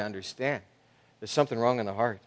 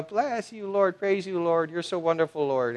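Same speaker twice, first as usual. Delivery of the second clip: mock pious praise; 4 semitones higher, 4 dB quieter than usual. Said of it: "a child of God who's in church".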